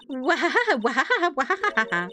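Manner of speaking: mock wailing "wah"; character wail. Acted character's wailing interjection.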